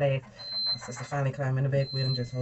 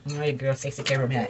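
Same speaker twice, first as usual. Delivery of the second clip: auntie voice. Retold or imitated. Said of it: "auntie way".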